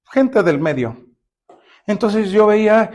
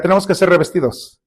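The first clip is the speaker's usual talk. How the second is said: a plain call to repeat; congregation repeat line. Shown as a demonstration. Pastor gives the congregation a line to echo, evenly.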